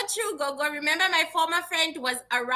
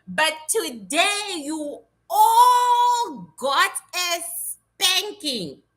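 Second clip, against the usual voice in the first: slow, drawn-out teasing scold; a teasing spanking threat; mock scolding; much slower than usual. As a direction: drag it out like a playful telling-off. Scolding the crowd playfully.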